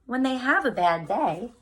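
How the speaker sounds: put-on lively picture-book read-aloud for kids; reading to children. Teacher reading a picture book to her class, lively storytime voice.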